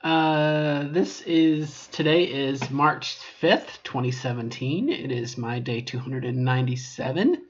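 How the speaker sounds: muffled through a plastic bag; bag over head. Real, not acted. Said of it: "why I have a bag over my head".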